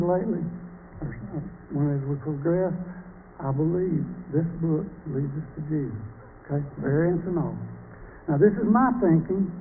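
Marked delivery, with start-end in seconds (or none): 3.4-6.0 this book leads us to Jesus, each word weighed; emphatic restatement. Shown as a demonstration. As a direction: press on "this" and land it softly. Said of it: "I'm gonna say it again".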